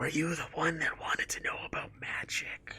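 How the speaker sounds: soft hushed whisper, close to the ear. Voicing a character who whispers in a player's ear: whispering in character. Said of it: "she whispers in your ear".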